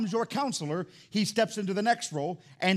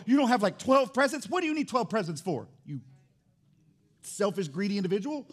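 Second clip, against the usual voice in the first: mock scolding; 3 semitones higher than usual. Mock scolding of greedy kids.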